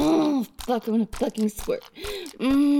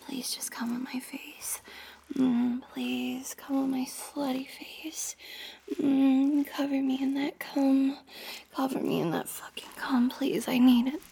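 whispered begging. Acted. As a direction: beg in a hush.

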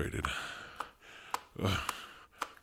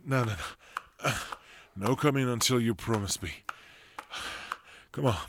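stern refusal; 6 semitones higher, 4 dB louder than usual. Acted. Stern refusal to his partner.

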